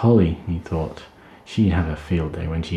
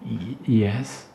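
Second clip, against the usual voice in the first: nervous stammering yes; mild stammer; 4 semitones higher, 3 dB quieter than usual. Acted. Tim answering the angry father, stammering. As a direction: trip over the first sound. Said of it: "stammered Tim".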